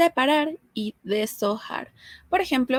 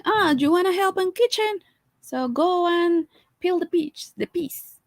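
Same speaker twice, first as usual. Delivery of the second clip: grandma; 8 semitones higher than usual. Retold or imitated. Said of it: "grandma's always like".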